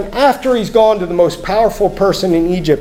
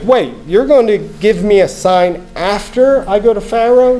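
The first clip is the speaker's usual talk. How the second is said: higher-pitched balking, leaning on "after"; acted disbelief, pitched up; incredulous Moses; 4 semitones higher than usual. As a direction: question the deal, stressing "after". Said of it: "almost hear what Moses is thinking".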